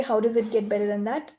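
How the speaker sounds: bright, lifted question, sure something better is coming; joyful expectation. Shown as a demonstration. Coach demonstrating asking with the energy of joy, lifted and bright. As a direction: ask it expecting good news. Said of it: "I say it with that energy".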